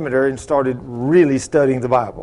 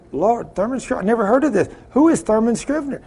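mildly baffled, higher-pitched questioning; retold bafflement; 6 semitones higher than usual. Seminary graduate questions the Lord about a stranger's name, mildly baffled. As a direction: puzzle aloud over an unknown name.

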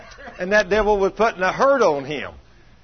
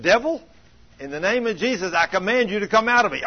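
raised, commanding rebuke of the devil; 4 semitones higher than usual. Retold or imitated. Man in pain commanding the devil to leave, raised voice. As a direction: order the devil out with authority.

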